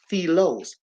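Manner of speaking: "philos" sounded out for the listeners; pronunciation demo. Shown as a demonstration. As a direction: show how "philos" is pronounced. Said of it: "it's pronounced".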